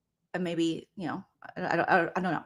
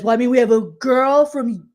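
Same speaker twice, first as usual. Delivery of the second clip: mocking impression; 2 semitones higher, 5 dB louder than usual. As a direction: lay it on thick like a smug guy. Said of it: "he says".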